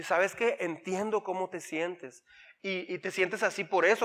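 soft, slow understanding tone; calm the child, gently and slowly; reassuring parent. Retold or imitated.

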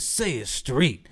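slow, measured imitation of the coach; pointed speech coach. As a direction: draw out the demand deliberately. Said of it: "She looked at me and said".

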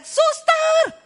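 high, loud bratty shout; shrill demanding call across the house; yelling for the nanny. Retold or imitated. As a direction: bark for the maid like a spoiled teen. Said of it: "dia teriak".

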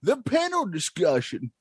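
lightly voiced grizzled prospector; a hint of an old-timer miner. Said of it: "the old prospector".

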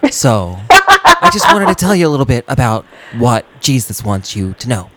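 lightly voiced preachy youth pastor; cheery churchy talk to teens; upbeat youth pastor. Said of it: "youth pastor voice".

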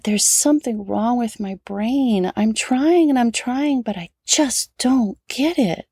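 lightly voiced crying child, dragging the words; tearful plea. Son in tears telling mom about his brain, mild teary plea.

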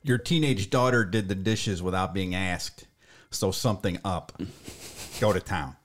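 slow, lightly put-on Cleveland accent; a touch of nasally Cleveland accent. Shown as a demonstration. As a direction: read the ad in a mild Cleveland accent. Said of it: "That's my best Cleveland accent".

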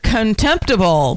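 mock grand word. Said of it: "Let me use the big word".

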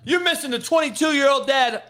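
a host laughing as he drives the argument home; laughing rant. Real, not acted. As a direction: crack up while making the point. Laughing while ranting.

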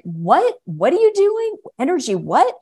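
mock shocked, pitch shooting way up; baffled parents. Imitating her parents watching the healing, in a high shocked squeak. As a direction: squeak out the disbelief. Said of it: "my mom and dad are there who are like".

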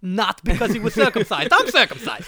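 a lightly voiced wiseguy explaining a nickname; a hint of a defensive mob guy; Italian mobster bit. Riffing the mob bit, lightly voiced Italian gangster. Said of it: "the bit of an Italian guy".

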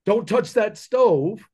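lightly voiced parent cautioning a kid off the stove; imitating a careful dad, drawn out; warning parent. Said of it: "You're not sitting there going".

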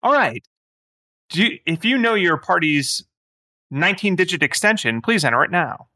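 lilting phone-menu AI voice; sing-song scheduling bot. Acted. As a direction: play a basic automated answering system. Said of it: "very low-level A I that's like".

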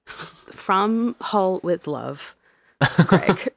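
slow, drawn-out mock signature; mock sign-off. Cohost jokingly signs off the hate note slowly. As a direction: savor the fake sign-off like a love letter.

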